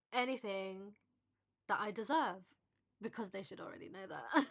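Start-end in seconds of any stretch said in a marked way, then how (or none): 3.0-4.5 a catch of tears at the end; fighting back tears on the last words; teary. Real, not acted. To her viewers about what she deserves, a tearful catch. Emotional breakup lesson, cry heard.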